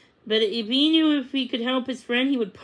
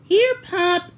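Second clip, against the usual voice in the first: calling; 8 semitones higher, 5 dB louder than usual. A narrator's reading. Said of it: "Lizzie called".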